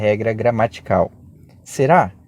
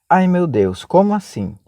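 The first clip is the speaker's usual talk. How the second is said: mock surprise; 5 semitones higher than usual. Teacher voicing a confused student, mock alarm. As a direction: play the baffled student.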